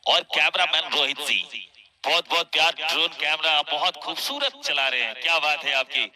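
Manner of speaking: loud shout-out. Real, not acted. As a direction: call out thanks across the ground.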